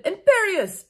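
high, loud hammed-up spell cast; shouted spell. A narrator's reading. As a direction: fling the curse like a villain. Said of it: "Voldemort shouted".

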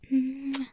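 kiss the listener, close up; acted kiss. Moth kissing the human it loves, acted kiss.

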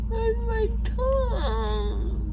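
high slow tearful wail; crying. Real, not acted. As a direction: wail it slowly through tears. Drugged patient crying over tongue.

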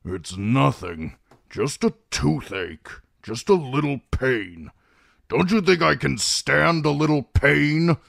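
put-on irritable old man, building from grumble to loud high outburst; snapping. A narrator's reading. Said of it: "Kreb snapped".

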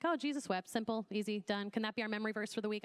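offhand, quickening to a hurried finish; flippant joke. Acted. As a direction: toss it off as an easy memory verse. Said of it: "could become a joke sometimes".

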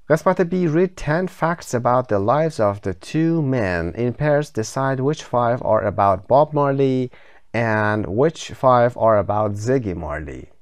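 slow, careful reading of the task; slow textbook reading. Shown as a demonstration. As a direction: read the instructions out slowly for learners. Teacher reads textbook instructions.

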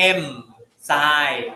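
enzyme said as "em-sai" with an m sound before the s; wrong pronunciation. Shown as a demonstration. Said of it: "ก็ไม่เอา". (ออกเสียง enzyme ผิดเป็น "เอ็ม-ไซ")

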